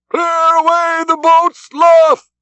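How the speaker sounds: high, drawn-out shout of command; cried order. A narrator's reading. Ahab calling his crew to the boats, a high shout. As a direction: bellow the order across the deck. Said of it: "cried Ahab".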